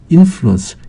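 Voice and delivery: "인플루언스" said as English IN-flu-ence; "인플루언스" with the stress on its first syllable; stress at the front. Shown as a demonstration. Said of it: "명사의 강세가 제일 앞에 있고요".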